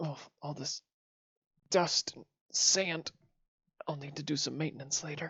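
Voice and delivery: quiet muttering, mumbling. Playing a character in a role-play scene, moving their knees and muttering. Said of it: "just kind of mutter".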